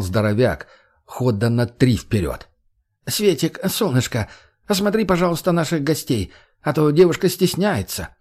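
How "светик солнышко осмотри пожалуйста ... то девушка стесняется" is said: high, sugary purr like a cat full of cream. Acted. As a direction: coax her sweetly. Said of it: "мурлыкая, словно кот". (мурлыча, словно кот)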